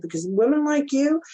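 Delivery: lightly acted tough talk; retold harshness. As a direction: imitate a blunt telling-off. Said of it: "I know that sounds harsh".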